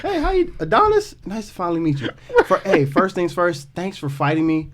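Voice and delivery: a hint of a sweet, apologetic nice guy; overly nice guy. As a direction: pretend Drago's son greeting Adonis, mildly gentle and sorry. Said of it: "He could be the nicest person".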